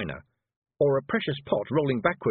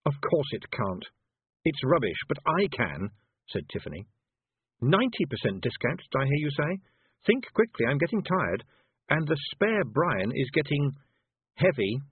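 Tiffany, cool threat; 4 semitones higher than usual. Acted. Tiffany voiced, higher.

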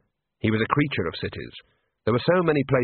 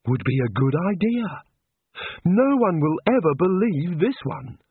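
incredulous Rincewind; 4 semitones higher than usual. Acted. Rincewind berating a pie seller over his floater, incredulous.

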